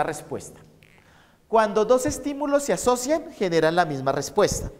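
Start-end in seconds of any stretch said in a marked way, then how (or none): 1.5-4.7 teacher dictating a definition. Shown as a demonstration. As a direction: read it out so students can write it down. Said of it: "les voy a dictar esto".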